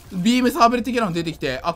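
usual speaking voice

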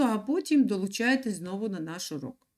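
ordinary talk

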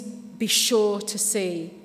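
drawn out slowly, each word weighed; slow emphasis. Shown as a demonstration. Preacher explaining a Greek word, slow and deliberate. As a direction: linger on every word so they sink in. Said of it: "But it means".

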